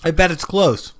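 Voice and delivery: talking while chewing; words round a bite of food; mouth full. Real, not acted. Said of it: "Stop chewing with".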